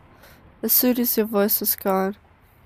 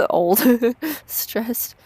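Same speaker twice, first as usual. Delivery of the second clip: laughing. Acted. Laughing reply.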